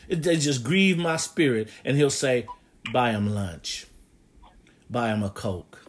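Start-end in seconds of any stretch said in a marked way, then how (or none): 2.9-5.8 low, hushed instruction; God's quiet command. Acted. God telling the preacher to treat someone he dislikes: low, hushed command. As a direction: drop right down to a small, quiet voice.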